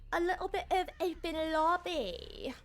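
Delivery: a playful clever-sounding line; lightly hammed-up phrasing; silly put-on voice. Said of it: "I don't know why I said it like that".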